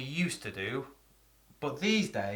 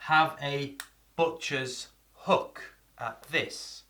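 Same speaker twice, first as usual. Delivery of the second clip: slow quiz; much slower than usual. Shown as a demonstration. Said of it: "can you guess".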